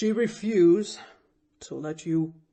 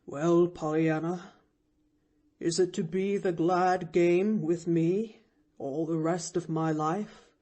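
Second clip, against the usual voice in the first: gently; 4 dB louder than usual. A narrator's reading. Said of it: "asked the man gently".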